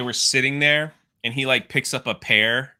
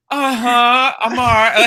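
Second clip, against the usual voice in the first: high, louder mock reply; Padme; 9 semitones higher, 6 dB louder than usual. Fan mocking what Padme tells the clone trooper, high-pitched. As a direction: put on a much higher voice to mimic her.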